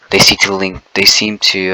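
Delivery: stumbling over the words; tripping on each word, stuttering. Real, not acted. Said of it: "I'm literally stuttering".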